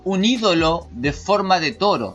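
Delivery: slow, deliberate commentary reading; emphatic read-aloud. Acted. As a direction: read it out in measured, stressed phrases. Lee el comentario en voz alta. (lectura enfática y pausada)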